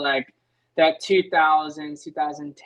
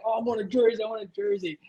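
higher, mock-eager fan begging; imitating a fan freaking out; 6 semitones higher, faster than usual. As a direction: play the starstruck mechanic wanting a jersey. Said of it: "he's, like, freaking out".

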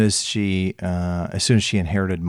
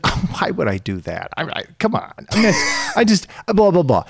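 put-on higher, whiny protest as his old mother; whiny elderly mother; 9 semitones higher than usual. Son mimics his protesting old mother, high and whiny. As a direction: act out mom brushing off the milk jug test.

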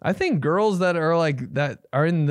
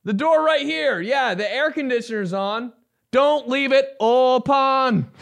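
rock singer voice; 8 semitones higher than usual. Pretend. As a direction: croon it like a post-grunge frontman. Singer voice bit about open.

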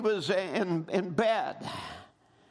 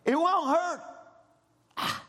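tempted self-talk. Shown as a demonstration. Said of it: "Now watch how reasoning begins to work".

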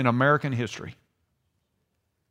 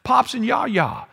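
Bodie; 8 semitones higher, slower than usual. Retold or imitated. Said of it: "But he's going".

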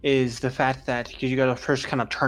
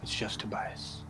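a hint of a humble priest, lower than the game master; lightly voiced modest priest; 4 semitones lower, 7 dB quieter than usual. Priest correcting a guest about his title, lightly voiced and modest. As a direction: lightly play a priest settling down softly.

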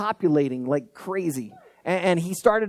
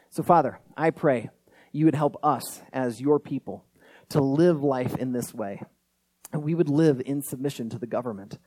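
earnest spoken prayer, evenly paced; 2 semitones lower than usual. Real, not acted. Pastor praying to God for his people, earnest prayer. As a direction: lead the congregation in an unhurried, slightly lowered prayer.

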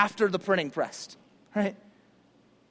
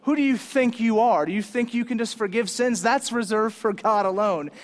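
mock-indignant religious critic, slightly raised; acted-out scolding objection; indignant challenge; 3 semitones higher, 4 dB louder than usual. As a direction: challenge him as an offended legalist. Religious critics challenge Jesus in retelling.

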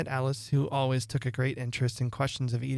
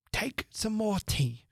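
earnest; 8 semitones higher, slower than usual. A narrator's reading. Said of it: "very earnestly".

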